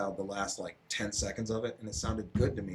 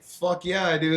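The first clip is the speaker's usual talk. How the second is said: much higher, louder eager answer; enthusiastic yes; 9 semitones higher, 6 dB louder, slower than usual. Retold or imitated. Answering a coworker about old music, high excited yes. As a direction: proudly blurt it out. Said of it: "I'm like".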